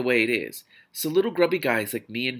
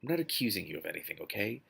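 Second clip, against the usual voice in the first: soft, gentle and quick, a little quieter; mildest voice; 3 semitones lower, 8 dB quieter than usual. A narrator's reading. Pat gently probes Sunshine about the long walk, mild. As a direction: keep it mild and easy, no accusation. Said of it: "said Pat in his mildest voice".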